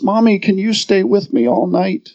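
put-on a touch of a timid small child; lightly voiced scared little boy; little boy's trembling voice. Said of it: "In his little trembling voice".

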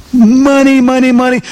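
money money money, each money lifted high; money repeated high. Acted. Preacher mocking a millionaire's life, money sung out high. Stressing wealth, pitched high.

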